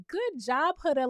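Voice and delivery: lightly imitated talking-to-a-toddler praise; mildly patronizing, as if to a little kid; praising a small child. Friends praising Huda like a four-year-old, lightly babying. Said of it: "like she's four years old".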